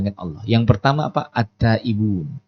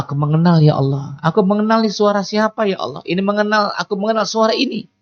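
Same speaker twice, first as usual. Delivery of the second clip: high, earnest angel voice calling out to God; angels speaking to God; 5 semitones higher than usual. Acted. Preacher voicing the angels answering God, high and earnest. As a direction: lift the voice high and plead as the angels. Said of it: "Malaikat mengatakan di langit".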